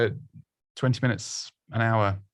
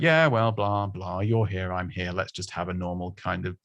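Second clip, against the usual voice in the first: low-effort chat; 3 semitones lower than usual. Acted. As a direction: imitate someone who can't be bothered. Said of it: "Put a bit of effort in".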